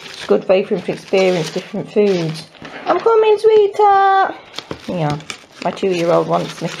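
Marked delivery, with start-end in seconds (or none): 2.9-4.3 calling out. Real, not acted. Calling to two-year-old.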